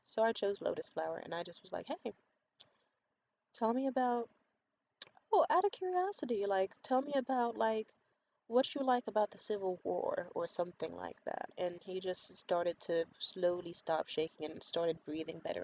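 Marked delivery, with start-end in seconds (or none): 1.9-10.3 retold sweet coaxing, pitched up; gently steer someone off the subject in a higher voice; calm and sweet. Woman distracting her shaking date, imitated as calm and sweet. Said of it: "be calm and sweet like a lotus flower".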